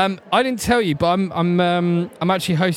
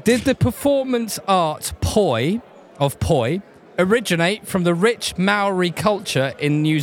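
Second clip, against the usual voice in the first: quiz host reading. Acted. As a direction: read it out like a pub quizmaster. Quizmaster reads a question.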